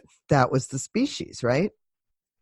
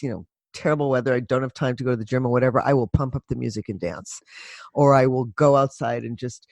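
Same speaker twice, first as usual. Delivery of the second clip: ordinary talk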